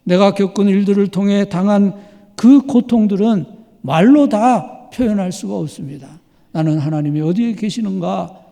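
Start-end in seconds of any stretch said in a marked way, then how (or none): none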